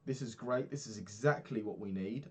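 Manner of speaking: a light sing-song send-up of a cheery instructor; mock fitness lady. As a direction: parody her cheerful email greeting. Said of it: "She says".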